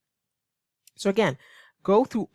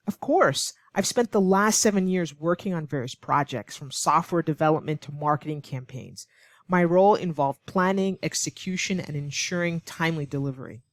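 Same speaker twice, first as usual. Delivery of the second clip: confident. Shown as a demonstration. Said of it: "She would say very confidently".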